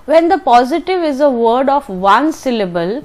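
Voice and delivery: reads the textbook rule slowly and evenly; slow, deliberate textbook reading. Shown as a demonstration. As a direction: dictate the rule word by word. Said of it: "reads the rule aloud".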